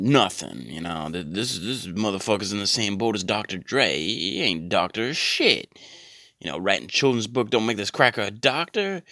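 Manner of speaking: a light Samuel L Jackson swagger, barely off own voice; loosely playing Samuel L Jackson, mild cursing rant; Samuel L Jackson impression. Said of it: "that really was an impression".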